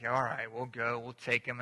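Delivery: low, soft grudging agreement; reluctant grumble. Retold or imitated. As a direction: mumble a half-hearted yes under your breath. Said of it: "I was doing the grumble, grumble thing".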